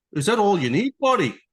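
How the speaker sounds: high, overly friendly mock dealer voice; imitating a sugary salesman; chipper service guy. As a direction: play the cheery car-dealer greeter. Dealer voice, mimicked.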